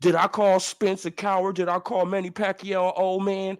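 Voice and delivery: mock quote. Quoting rival mockingly.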